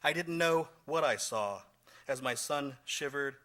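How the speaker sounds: measured recital of a personal poem; poetry reading. Acted. Poet recalling shame and a son's birth, measured poetry reading. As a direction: read it line by line with deliberate pauses. Resumes poem after slip.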